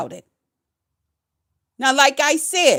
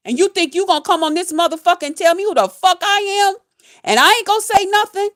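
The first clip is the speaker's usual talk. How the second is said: furious outburst; 6 semitones higher than usual. Real, not acted. Ranting at a viewer who spread gossip, furious rising yell. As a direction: blow up in disbelief. Angry rant at a chat viewer.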